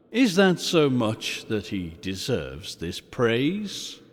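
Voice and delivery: quiet, measured spirit testing him; lightly voiced ghost. Ghost testing Scrooge, quiet and solemn.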